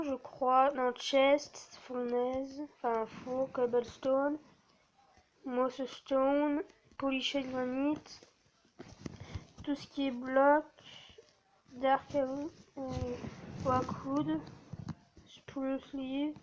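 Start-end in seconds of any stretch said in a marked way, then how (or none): 3.5-8.2 English words in a French accent. Real, not acted. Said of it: "mon superbe accent anglais". 11.7-16.3 English words in a French accent. Real, not acted. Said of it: "mon superbe accent anglais".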